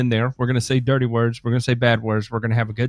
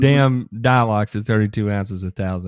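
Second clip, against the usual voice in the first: excited rant; 4 semitones higher than usual. Real, not acted. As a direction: push the point, getting worked up. Heated rant about spraying.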